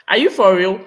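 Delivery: loud, astonished challenge; incredulous. Real, not acted. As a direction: question it in open disbelief. Disbelief at a viewer's comment.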